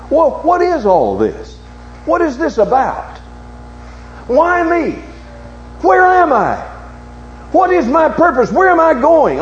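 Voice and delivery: high-pitched, pleading retold questions; preacher acting out a child's anguished questioning; hurt little boy. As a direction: cry out each question high, as a bewildered boy. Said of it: "hurt little boy of eight years old".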